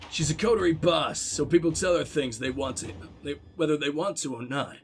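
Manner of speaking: lightly voiced Varric. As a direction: read it like a wry dwarf storyteller.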